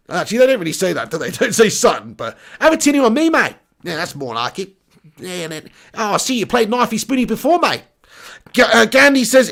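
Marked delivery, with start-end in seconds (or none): 2.6-3.6 put-on higher-pitched jokey Australian accent; retry the Aussie catchphrase in accent; mock Australian accent. Streamer correcting his Aussie slang, mock Australian accent. 5.9-7.8 put-on light, jokey Australian accent; mock Australian accent. Streamer teasing an Aussie viewer, mock Australian accent.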